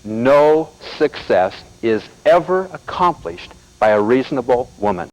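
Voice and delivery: slow, emphatic repeat; repeating the quote for emphasis; slow quote again. Shown as a demonstration. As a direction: hammer the quote home slowly. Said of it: "Let me say it again".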